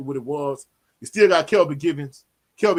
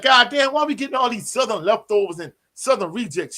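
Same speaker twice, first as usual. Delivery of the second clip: mad coworker rant; 6 semitones higher than usual. Retold or imitated. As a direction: imitate a fuming fan venting. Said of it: "She was mad".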